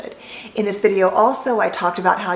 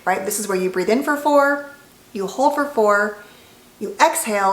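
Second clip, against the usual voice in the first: ordinary talk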